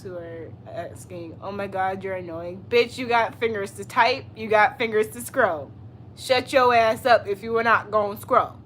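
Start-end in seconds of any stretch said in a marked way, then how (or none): 2.7-8.5 scolding chat. Real, not acted.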